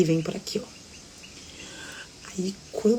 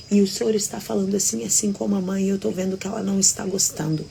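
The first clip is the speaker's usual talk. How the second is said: higher, firm retold reproach; confronting; 3 semitones higher than usual. Daughter confronting her father over his rudeness, mildly reproachful. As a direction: imitate a daughter speaking up.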